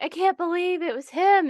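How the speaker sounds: high-pitched imitation of shocked players; mock disbelief. Imitates shocked reaction to murder.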